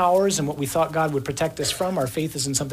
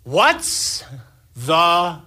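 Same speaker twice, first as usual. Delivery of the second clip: mock shouted reply with long gaps; yelling back; 3 dB louder, much slower than usual. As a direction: yell it back across a storm, word by word. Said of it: "yelling back, something like this".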